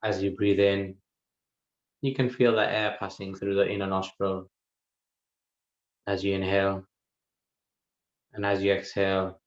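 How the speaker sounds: calm, even delivery with long pauses; guided meditation. Real, not acted. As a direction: unhurriedly guide listeners into the breath, leaving silences. Leads a guided breath meditation.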